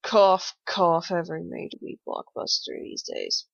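a loud spoken cough, then a dry jab; sarcastic fake cough. Cohost mocking blockbuster remakes, sarcastic fake cough. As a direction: clear the throat pointedly, then deadpan it.

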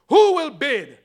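loud, high auctioneer call. Acted. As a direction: call out to the room. Auctioneer calling out to room.

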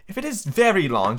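put-on courteous storybook girl; polite Alice. A narrator's reading. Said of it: "as politely as she could".

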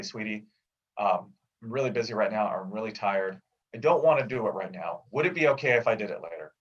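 plain sincere ask to the wife; gently and honestly say you'd rather wait; straightforward honest request. Shown as a demonstration. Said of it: "desire not to take out the trash in a very straightforward way".

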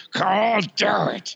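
slow, strained through clenched teeth; clenched-teeth imitation. Co-host imitates his friend's pitch, clenched teeth. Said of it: "with your teeth clenched".

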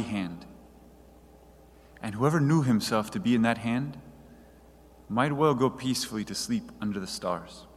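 low, measured quotation reading; reading aloud. Acted. Reads a passage about Francis.

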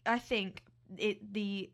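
an attempted Aussie accent; put-on Australian accent. Co-host starting the airline story, put-on Australian accent. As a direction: present the story as a playful Australian. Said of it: "You're losing it".

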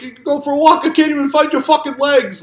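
loud, high shouted mockery; mock drill sergeant. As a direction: yell it like a callous sergeant. Mocking the scene.

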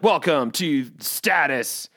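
slow, gruff-styled intro; lightly mocking bro podcast intro; macho podcast host. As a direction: announce it like a tough-guy show.

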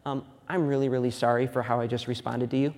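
put-on soft, tender sorry to a child; gentle apology. Dad apologizing to his son on the couch, soft and tender. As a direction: quietly ask your son's forgiveness. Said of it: "I'm like".

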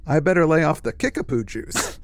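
put-on light Tennessee accent; a touch of Tennessee twang. Beardy guy chuckling off his dream, mild Tennessee accent. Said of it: "in a Tennessee accent".

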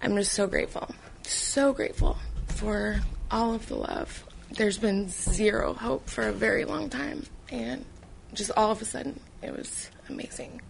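soft voice fading to a breathless whisper; fighting tears as gratitude overwhelms her; real choked-up thanks; holding back tears. Real, not acted. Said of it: "I'm trying not to cry".

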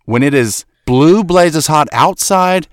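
loud, incredulous grilling; heated challenge. Real, not acted. Host grilling cohost about his woolen overshirt, heated. Heated argument over clothes in the heat.

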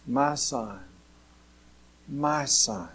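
soft, unhurried, gentle reading; lightly voiced loving father; tender father. A narrator's reading. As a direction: soothe an upset son softly. Father answers son in parable.

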